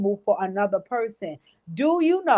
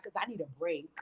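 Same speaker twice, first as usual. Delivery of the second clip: mocking whine; 5 semitones lower, 9 dB quieter than usual. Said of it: "they was like".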